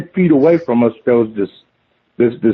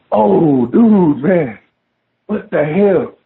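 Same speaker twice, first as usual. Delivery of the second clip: shaken cry; 3 semitones higher, much slower than usual. Retold or imitated. Shaken after the encounter.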